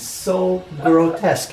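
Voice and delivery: slow, drawn-out disgust at oneself; appalled. Real, not acted. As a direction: stretch the words out, appalled. Dismayed at hearing own recorded pronunciation.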